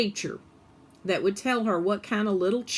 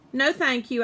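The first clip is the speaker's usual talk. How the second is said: extra polite; 5 semitones higher, 4 dB louder than usual. Acted. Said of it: "I said extra politely".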